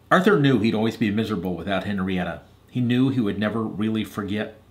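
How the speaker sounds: measured, expressive storytelling; story narration. A narrator's reading. Reader telling Hadley and Eliza Arthur's story, narrating. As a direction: read a storybook aloud to children.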